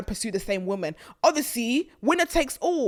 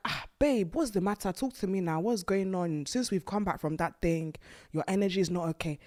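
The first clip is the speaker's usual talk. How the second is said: put-on softer, caring boyfriend; gentle concern; 2 semitones lower, 6 dB quieter than usual. What the boyfriend should have softly said to his upset woman. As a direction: coax her tenderly.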